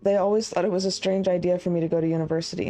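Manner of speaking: brisk, even-pitched letter read-through; quick, understated read-aloud. A narrator's reading. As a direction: read the love letter out quickly, with little drama.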